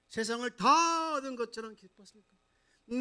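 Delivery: loud exuberant proclamation; joyful exclaim. Shown as a demonstration. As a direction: burst out with joy.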